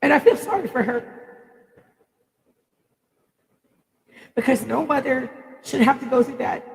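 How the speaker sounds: tearful, pitched well up, voice straining; real crying, pushing words out through tears. Real, not acted. Mother crying to viewers over her daughter and her own pain, tearful high voice. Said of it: "the reason why I'm crying is".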